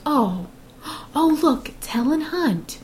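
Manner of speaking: put-on high-pitched chit-chatting old lady; imitated old lady. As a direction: mimic an old lady spotting a film star. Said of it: "one of them goes".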